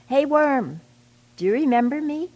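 high, loud call across the dung pile. A narrator's reading. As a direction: call out to get his attention. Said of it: "called out".

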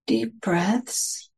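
unhurried meditation guidance with long pauses between phrases; guided meditation. Real, not acted. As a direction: gently guide listeners into settling, phrase by phrase.

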